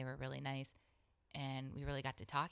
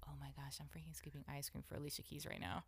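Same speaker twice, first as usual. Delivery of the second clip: soft, whispered retold thought; hushed amazement; 8 dB quieter than usual. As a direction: whisper it to yourself, star-struck. Retold secret thought, star-struck.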